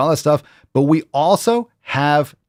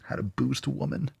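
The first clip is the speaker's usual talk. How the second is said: mocking reread; 3 semitones higher, 11 dB quieter than usual. Shown as a demonstration. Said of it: "That's such a vague question".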